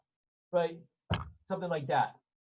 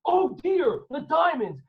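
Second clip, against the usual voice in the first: high alarmed oh dear; sudden dismay; 8 semitones higher, 4 dB louder, slower than usual. Acted. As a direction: gasp it out as he remembers. Character realizes he forgot diamonds.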